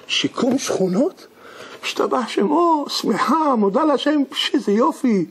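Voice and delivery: put-on high, slow, overjoyed old woman's voice; a widow thanking God, thrilled by the free repair; excited widow. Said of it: "כולה מרוגשת".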